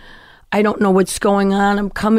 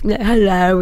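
put-on British accent. Showing her old act with a friend, British accent. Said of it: "talk with a British accent".

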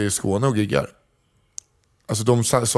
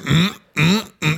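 higher-pitched "mm, mm, mm"; three separate hummed mms, pitched up; imitated ad hum; 4 semitones higher than usual. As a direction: copy the ad's savouring hums. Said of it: "Det låter".

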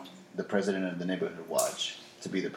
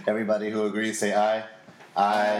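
louder formal call for ayes; mock vote call; 5 dB louder than usual.

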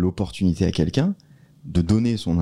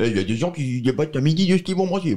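much higher caricatured Romain voice; Romain impression; 9 semitones higher than usual. Mimicking Romain for the podcast, much higher and smug. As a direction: play him smug and scornful, pitched way up. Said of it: "Léo est celui qui t'imite le mieux".

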